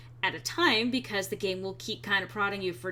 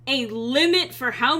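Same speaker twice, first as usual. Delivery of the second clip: muffled, face in hands. Real, not acted. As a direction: talk muffled through hands. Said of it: "I presently have my face in my hands".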